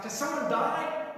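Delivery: high, loud, tactless question; careless call. Retold or imitated. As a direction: blurt it out carelessly. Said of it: "It's like".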